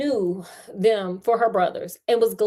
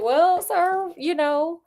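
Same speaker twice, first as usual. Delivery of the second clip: cheeky teasing; 8 semitones higher than usual. Retold or imitated. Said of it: "I'm like".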